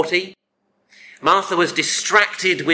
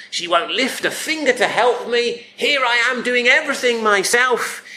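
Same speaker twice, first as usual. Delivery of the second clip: higher-pitched, aggrieved grumbling rant; indignant rant; 7 semitones higher than usual. Acted. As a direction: rant as a resentful sister doing all the work. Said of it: "the kind of rant".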